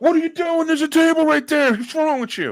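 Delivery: put-on New Jersey accent, very high and loud. A speaker acts out their own reaction in a story, in a New Jersey accent. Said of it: "I have the Jersey accent out".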